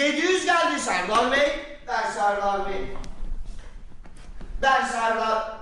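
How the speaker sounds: auctioneer. Acted. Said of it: "Ses tonunu niye öyle yapıyorsun".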